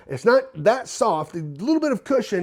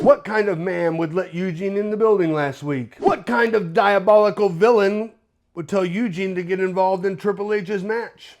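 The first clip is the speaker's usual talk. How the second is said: put-on posh British accent. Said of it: "in his posh British accent".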